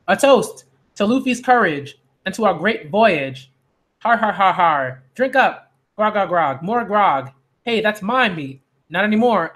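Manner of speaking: lightly voiced rowdy pirate crew; carousing pirates. Pirates drink to Luffy's courage, mildly rowdy.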